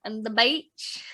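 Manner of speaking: Aussie "beach" with a rising tune; put-on Australian vowel in "beach"; Australian accent. Shown as a demonstration. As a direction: softly demonstrate an Australian accent. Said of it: "certain phrases that are easy to do".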